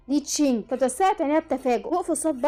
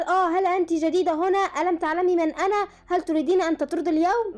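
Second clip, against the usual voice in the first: raised, higher angry voice; angry yell; 4 semitones higher than usual. Acted. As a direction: bark at the new waitress. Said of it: "بابا صرخ وقال".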